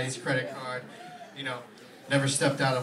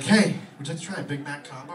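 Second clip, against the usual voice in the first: bright loud cashier pitch; cashier upsell; 7 dB louder than usual. Retold or imitated. McDonald's cashier offering a combo, loud and eager. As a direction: sell it like a fast food worker. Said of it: "the guy's like".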